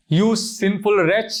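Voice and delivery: slow, loud, scornful rebuke; Sita's rebuke. Acted. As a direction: spit out the insult at him slowly. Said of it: "looks at Ravana and says".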